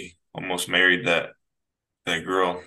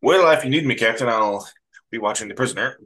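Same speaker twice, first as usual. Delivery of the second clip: deadpan Spock; faster than usual. Retold or imitated. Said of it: "his deadpan".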